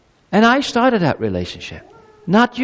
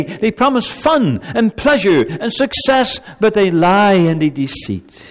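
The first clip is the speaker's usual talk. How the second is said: higher, pleading voice of a caring God; loving father warning his people; 4 semitones higher, 3 dB louder than usual. Acted. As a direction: urge them gently but earnestly away from idols. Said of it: "God speaks as a loving being".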